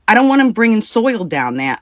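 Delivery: high, loud mock snap; mocking the wife. Retelling the wife's refusal, a loud, high mocking imitation. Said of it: "And she says".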